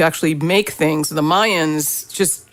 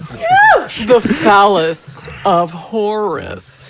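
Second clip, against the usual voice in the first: very slow, drawn-out proclamation; mock-grand announcement; much slower than usual. Teasing a co-host about the list, slow mock-grand announcement. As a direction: intone it like a solemn title, every word stretched.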